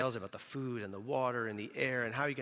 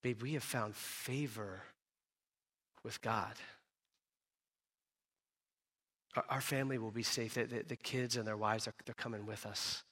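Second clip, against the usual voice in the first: gentle reassurance; 2 semitones lower, 5 dB quieter than usual. Retold or imitated. Noah telling his wife the family will be safe, reassuring. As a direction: reassure tenderly, in no hurry. He holds his hand and he tells her.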